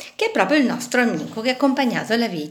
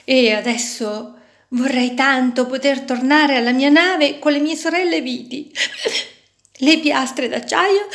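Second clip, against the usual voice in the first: sobbing; 4 semitones higher than usual. Acted. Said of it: "singhiozzando sempre più forte".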